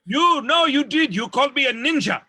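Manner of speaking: high, loud protest; mock indignant outburst. Acts out quarrel over the word.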